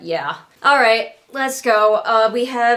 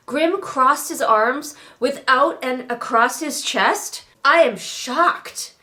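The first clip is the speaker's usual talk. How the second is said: sarcastic; 3 semitones higher, slower than usual. Acted. Sarcastic reaction to book line.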